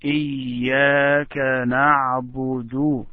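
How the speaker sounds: إياك نعبد with a held pause on إياك; careful recitation. Shown as a demonstration. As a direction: model إياك نعبد, pausing on إياك. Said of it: "Just try to pronounce it this way".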